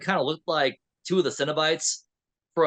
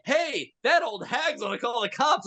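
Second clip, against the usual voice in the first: Sabrina; 7 semitones higher than usual. Retold or imitated. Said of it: "and Sabrina's like".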